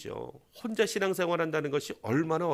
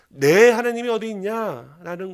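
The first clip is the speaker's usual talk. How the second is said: a louder jeering question; mocking taunt; 4 semitones higher, 6 dB louder than usual. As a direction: taunt him about his God. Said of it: "조롱하고 있는 것이죠". (조롱하는 말투)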